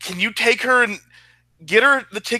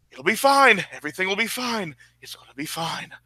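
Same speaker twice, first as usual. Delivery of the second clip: reassuring, fading; 4 dB quieter than usual. Acted. Soothing himself while leaving.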